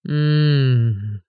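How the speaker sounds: long suffering moan; martyred groan. A narrator's reading. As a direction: groan like the world is against you. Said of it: "мученически застонал Игорь".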